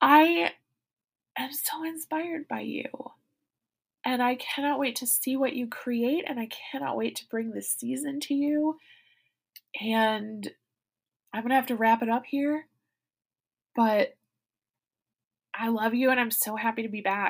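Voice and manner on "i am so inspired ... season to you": speaking through tears. The speaker addresses listeners directly, crying while speaking. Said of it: "I'm literally crying right now".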